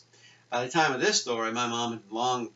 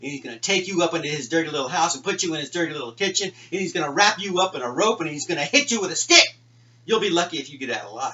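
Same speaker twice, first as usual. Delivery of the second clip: put-on louder and louder kid's scary warning; big brother spooking his little brother with a mounting, loud warning; threatening warning; 3 semitones higher, 5 dB louder than usual. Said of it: "my brother warned me".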